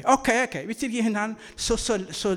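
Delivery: put-on high, loud, quick kids' okay; bright chorus of children saying okay, okay; eager kids agreeing. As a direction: play the eager children giving in. Kids agreeing in acted scene.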